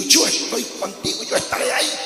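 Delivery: hushed, low reassurance, almost whispered; God reassuring David. Acted. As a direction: murmur it softly as a promise. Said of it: "le quiso decir". (susurro tranquilizador)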